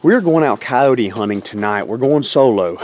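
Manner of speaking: gum in mouth while talking; chewing gum. Real, not acted. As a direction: chew gum as you speak. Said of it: "I got some gum in my mouth".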